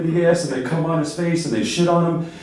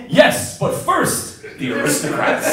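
drawn-out, breathy half-laughed delivery; leader's punchline; slower than usual. Acted. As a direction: stretch it out slowly, grinning through the last word.

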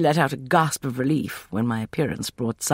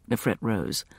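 plain reading voice

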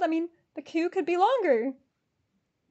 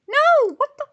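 high, loud protest; distressed disbelief; 11 semitones higher, 10 dB louder than usual. Real, not acted. Ticket buyer as the payment fails, dismayed. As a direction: cry out against what just happened.

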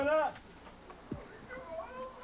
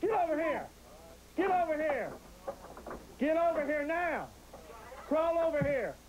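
commanding shout; 3 semitones higher than usual. Real, not acted. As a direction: order him out forcefully. Officer commanding hiding suspect.

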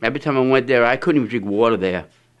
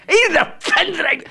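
high squeak. Retold or imitated. Retelling own complaint to wife.

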